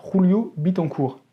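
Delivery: the name said slowly in a proud, put-on Spanish accent. Vlogger showing off his Spanish accent on a photographer's name, hammed-up Spanish accent. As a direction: roll it out like a native Spanish speaker. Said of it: "mon bel accent espagnol".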